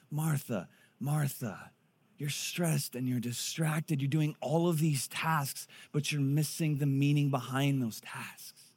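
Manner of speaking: slow, soft and tender rebuke; calm him down kindly, slowly; gentle Jesus. Retold or imitated. Jesus gently correcting a stressed Martha, soft and slow. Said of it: "the Lord answered her".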